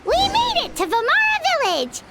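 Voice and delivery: high, bright cheer of arrival; happy to finally reach the village; excited arrival. Acted. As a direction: announce it like you just got there.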